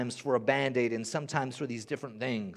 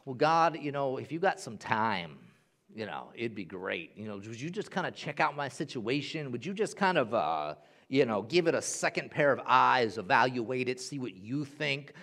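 casual throwaway prayer; 2 semitones lower than usual. Retold or imitated. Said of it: "pleading isn't casually throwing it out".

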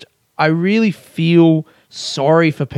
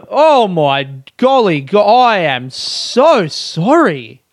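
sarcastic apology; 4 semitones higher, 3 dB louder, much slower than usual. Pretend. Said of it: "Sarcastic apology".

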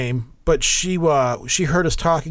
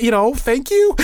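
sarcastic; 9 semitones higher, 4 dB louder than usual. Retold or imitated. Sarcastic thanks after the story.

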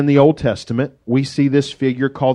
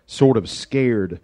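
mock sheepish; 4 semitones lower, much slower than usual. Real, not acted. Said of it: "because I am".

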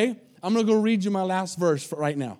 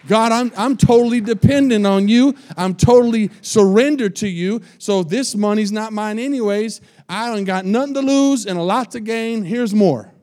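voiced prayer of surrender; 3 semitones higher, 6 dB louder than usual. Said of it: "like Ray said".

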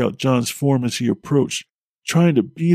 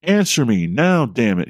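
yelling. Acted. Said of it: "he yelled".

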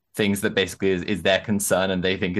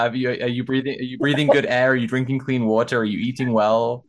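lightly voiced, higher fake-caring tone; mock concern; 4 semitones higher than usual. Mocking a harasser with a show of fake-caring concern. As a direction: coo at the troll like a worried friend.

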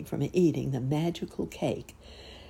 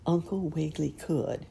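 ordinary delivery

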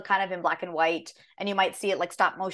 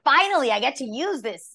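high, swooping "finally"; mock triumphant, pitched up; retold relief; 6 semitones higher, 4 dB louder than usual. Actor recalling a chance to use her dry tone, mock triumph. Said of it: "So I was like".

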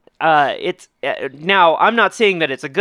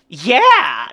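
a drawn-out, higher-pitched cry of glee; gleeful cheer; 5 semitones higher, 4 dB louder than usual. Acted. Imagining Joel Schumacher gleefully relishing the rampage, gleeful. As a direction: imitate a director cheering with glee. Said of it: "with glee going".

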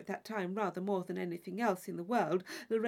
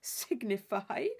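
surprised; slower than usual. Acted. Isabella echoes Catherine's word.

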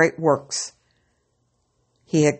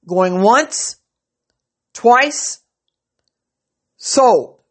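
auctioneer; 6 semitones higher, 5 dB louder, much slower than usual. Acted. Auctioneer closing the sale.

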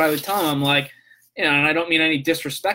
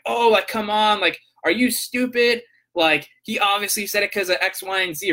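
a higher, mildly mocking "come on" imitating friends; exasperated scoff; 5 semitones higher than usual. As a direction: imitate them scoffing, a bit incredulous. Retold heated argument with friends.

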